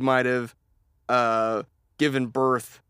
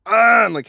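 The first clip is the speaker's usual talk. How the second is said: mock hacking groan; 8 semitones higher, 9 dB louder than usual.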